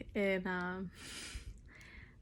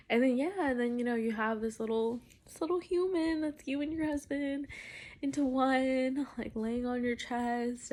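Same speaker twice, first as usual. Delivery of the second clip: higher, voice catching with emotion; getting emotional; 5 semitones higher than usual. Real, not acted. Mother recalling her newborn on her chest, emotional. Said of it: "but I'm getting emotional".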